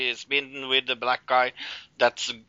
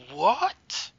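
shocked what; 12 semitones higher than usual. Retold or imitated. Cal hears shocking news.

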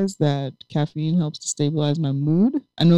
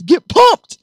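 hyped high shout; energy drink ad; 12 semitones higher, 8 dB louder than usual. Real, not acted. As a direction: pump yourself up. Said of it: "I gotta move my body sometimes".

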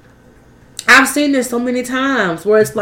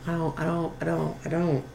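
laughing; 5 semitones lower, 15 dB quieter, faster than usual. Real, not acted. Laughing too hard to speak.

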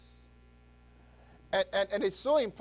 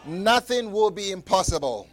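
loud proclaiming shout on God; 3 semitones higher, 10 dB louder than usual. Shown as a demonstration. Preacher has congregation repeat the verse, shouting. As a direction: call it out with the church. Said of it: "Repeat it with me one more time".

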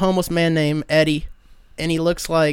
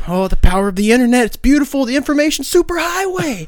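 imitating Eddie; 7 semitones higher, 3 dB louder than usual. Eddie voiced raving about phone.

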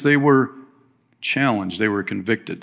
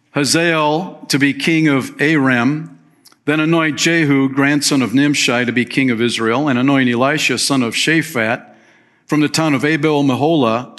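raised, measured Bible reading from the pulpit; scripture reading. Acted. Preacher reading the Lord's command to Elijah, measured scripture voice. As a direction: read the Lord's words out to the congregation.

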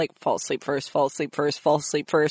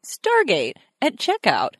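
mock ad read; imitating a podcast ad read; promo voice; 3 semitones higher than usual. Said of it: "the promo voice".

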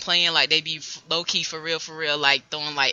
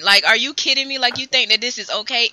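retold outrage; 5 semitones higher, 4 dB louder than usual. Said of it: "I said".

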